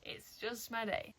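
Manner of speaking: slow, soft, breath-only aside; hushed self-pitying murmur; resigned whisper. Retold or imitated. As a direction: whisper it slowly, giving up. Resigned aside about broken necklace.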